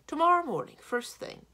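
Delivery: high, loud, resolute giant; sudden decision. A narrator's reading. Giant committing to consulting work, sudden decision. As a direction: punch it out high and eager. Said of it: "said with sudden decision".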